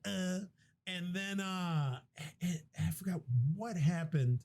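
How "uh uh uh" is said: short rhythmic mock moans; imitated grunts. Host repeating his whipped Sarah act, mock grunts. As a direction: put on little grunts, one per blow.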